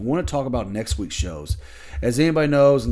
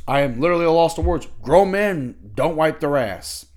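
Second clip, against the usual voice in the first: exasperated; 5 semitones higher, 3 dB louder than usual. Real, not acted. Exasperated rant peak.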